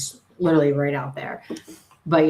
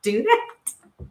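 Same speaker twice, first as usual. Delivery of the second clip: amused disbelief; 11 semitones higher, slower than usual. Retold or imitated. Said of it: "I was like".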